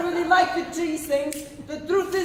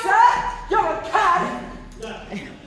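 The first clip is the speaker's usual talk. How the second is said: melodramatic accusation; 2 semitones higher, much slower than usual. Acted.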